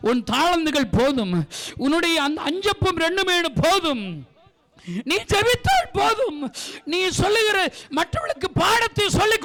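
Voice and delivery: impassioned preacher; fervent preaching. Acted. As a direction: drive each line home from the pulpit. Preaches at full force.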